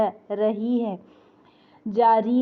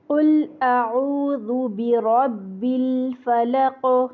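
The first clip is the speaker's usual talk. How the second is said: slow melodic tajweed chant of कुल अऊज़ु बिरब्बिल फलक; Quran recitation; much slower than usual. Shown as a demonstration.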